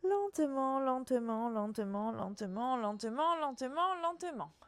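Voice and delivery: slow the class down word by word; soothing repeated lentement, fading; drawn-out lentement. Shown as a demonstration. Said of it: "Déroule lentement".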